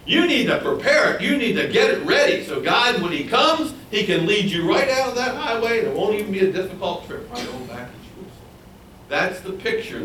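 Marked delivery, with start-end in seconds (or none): 0.0-8.3 higher, louder, laughing preacher's voicing; excited paraphrase. Preacher voicing God's promise, excited and laughing. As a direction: sell the good news with a chuckle. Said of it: "He's saying".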